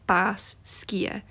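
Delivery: Bas Skia, Bas rhymes with moss and Skia said skee-a; correct Gaelic. Shown as a demonstration. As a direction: say Bas Skia as two clear Gaelic words. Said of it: "you would say".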